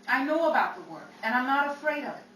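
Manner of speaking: loud, emphatic self-assertion; forceful and determined; defiant insistence. Acted. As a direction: hit it hard, sure of yourself. Singer insists she is ready.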